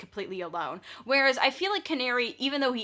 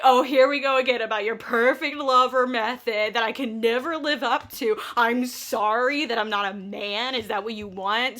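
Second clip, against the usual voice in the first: raised, bitter mock retort; mock angry retort; 2 semitones higher, 5 dB louder than usual. Wife snapping back at her husband in a fight, mock angry. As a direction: throw it back at him like a sore old fight. Doll yelling during a parents' argument.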